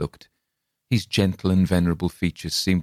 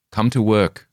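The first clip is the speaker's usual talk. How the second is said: hoarse snarl, louder; growled warning; 4 semitones higher, 5 dB louder than usual. Acted. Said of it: "in a hoarse, snarling voice".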